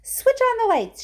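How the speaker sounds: loud, high order; shout. A narrator's reading. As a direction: call it out commandingly. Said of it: "shouted Mister Wonka".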